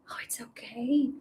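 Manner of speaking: soft whispered reassurance; calm the little puppy in a whisper; real gentle whisper; soothing whisper. Real, not acted.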